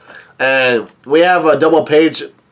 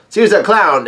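mild yell; 5 semitones higher than usual. Retold or imitated. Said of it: "somebody yells out".

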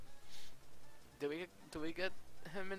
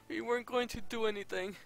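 giddy relief; 7 semitones higher, 3 dB louder than usual. Real, not acted. Still giddy after close call.

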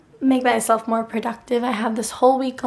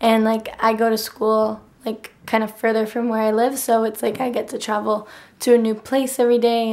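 hoarse, nearly gone voice; talking through a worn-out throat; lost voice. Real, not acted. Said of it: "my voice sounds so funny".

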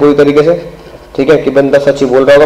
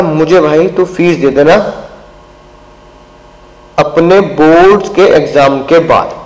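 mild teacher quote; slower than usual. Retold or imitated. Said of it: "और मैंने कहा".

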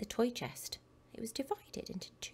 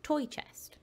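stubborn, slow insistence; 6 semitones higher, 5 dB louder, slower than usual. Acted. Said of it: "said Nathan".

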